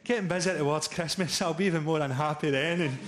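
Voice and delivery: lightly voiced bloke oversharing at a party; chatty barbecue bloke. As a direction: chat it like a weary dad at a barbecue.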